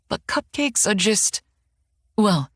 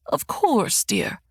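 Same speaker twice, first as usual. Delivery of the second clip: sweet mother; 8 semitones higher, slower than usual. A narrator's reading. Mother voiced, soft and sweet.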